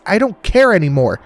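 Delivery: I don't care anymore hurled out high and loud, care hit hardest; shouted. A narrator's reading. Woman shouting I don't care anymore at her captors. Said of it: "She held her middle finger to the sky and shouted".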